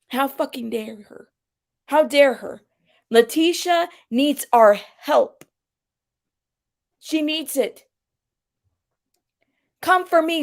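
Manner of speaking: mock-indignant appeal in emphatic bursts; hammed-up stone-faced indignation; stone-faced outrage. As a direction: imitate her righteous outrage, pausing between phrases. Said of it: "I was trying to say the stone face".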